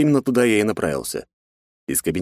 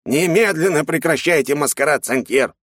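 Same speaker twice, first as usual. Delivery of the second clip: higher, sharp command to drop the act; stern order; 8 semitones higher than usual. Acted. Curator dragging the cadet away, stern angry order. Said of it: "приказал он".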